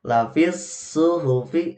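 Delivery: Lafis suhufi chanted with a short hu; slow Quranic reading; correct recitation. Shown as a demonstration. Teacher reciting the verse, slow chant. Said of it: "hunya juga pendek".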